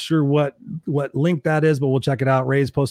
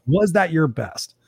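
slow, deliberate challenge; slow self-questioning; 3 semitones higher, slower than usual. Retold or imitated. Asking himself after a presentation, slow and pointed. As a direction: put the question to yourself, word by word.

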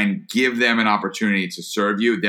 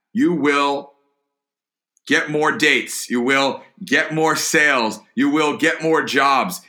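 emphatic build; 6 semitones higher, slower than usual. Real, not acted. Emphatic promise to listeners.

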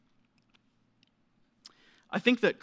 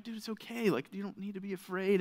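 softer, higher soothing voice; reassuring dad; 3 semitones higher, 6 dB quieter than usual. Retold or imitated. Dad to his frightened baby, imitated reassurance. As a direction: gently talk a little one down, retold. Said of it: "my voice reassuring him".

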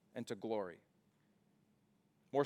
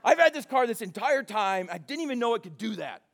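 high, loud, laughing protest; mock exasperation; 6 semitones higher, 5 dB louder than usual. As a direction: laugh through the friend's frustration. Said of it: "got mad".

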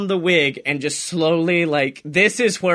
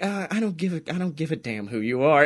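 cold dismissal; 3 semitones lower, 5 dB quieter, faster than usual. Retold or imitated. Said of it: "John's like".

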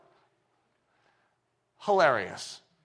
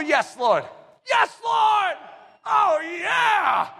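cheerful, eager; 9 semitones higher, much slower than usual. Retold or imitated. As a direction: burst out with joyful eagerness. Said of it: "The cheerful".

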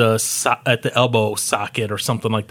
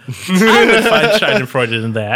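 laughing; 5 semitones higher, 4 dB louder than usual. Real, not acted. Laughing while saying it.

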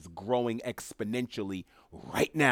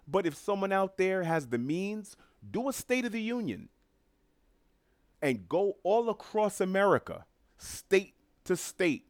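much higher, eager pitch; excited; 9 semitones higher than usual. Real, not acted. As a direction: sell the idea with excitement. Excited pitch for show idea.

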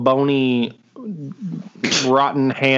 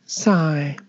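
breathy whispered "Sigh."; 3 semitones higher than usual. Retold or imitated. Echoing Willow's note in a whisper. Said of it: "and she says".

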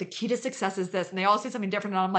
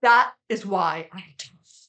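louder, each word slowed and landed; slow proud declaration; 8 dB louder, slower than usual. Real, not acted. Proud host declaring to her co-host why she's tough, loud and slow. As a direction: say it like a proud punchline.

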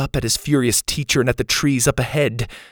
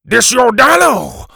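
slow, loud, higher accusing voice; angry teacher; 10 semitones higher, 8 dB louder than usual. A narrator's reading. Teacher accusing Bo over his dino, slow loud anger. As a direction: jab each word at him.

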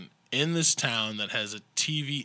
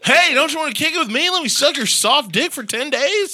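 much higher, louder mock come-on voice; mocking Kenny impression; 12 semitones higher, 7 dB louder than usual. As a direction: ham up a sleazy come-on. Imitating Kenny propositioning.

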